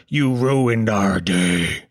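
low, slow, deadpan blame; a cold, guilt-tripping parent; grim parent. Retold or imitated. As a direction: drop the voice low and drag it out. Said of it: "I would be told".

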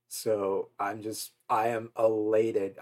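holding back tears, trembling; shaky voice. Real, not acted. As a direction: voice wobbling with emotion. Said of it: "I'm sure you can tell by the sound of my voice".

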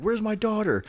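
high-pitched movie quote; imitated frantic parent. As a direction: play the searching parent, hammed-up. Acts out movie spoof line.

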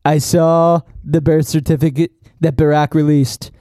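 lightly put-on pronouncement, measured and low; Trump quote. Podcaster retelling a news conference, lightly imitated politician voice. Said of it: "basically he said".

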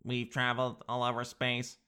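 mock robot voice; stiff, mechanical alien greeting. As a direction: announce it like a sci-fi robot. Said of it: "gonna sound like robots".

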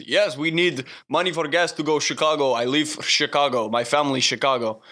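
put-on broken English with a mild foreign accent; imitated foreign accent. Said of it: "I don't think that he knew a lot of English".

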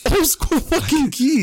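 high, drawn-out incredulity; amused disbelief. Real, not acted. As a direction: laugh it out slowly at the top of your voice. Incredulous at old-fashioned keys.

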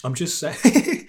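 slow, teasing drawl. Real, not acted. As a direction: stretch it out teasingly. Teasing after drink remark.

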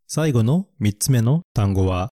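usual speaking voice

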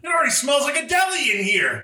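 very high, silly squeal; hammed-up yell. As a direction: join the joke in a piercing mock holler. Joining the yelled bit.

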